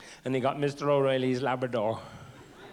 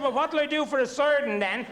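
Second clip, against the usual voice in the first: mock child voice; 10 semitones higher than usual. Childhood pal voiced in story.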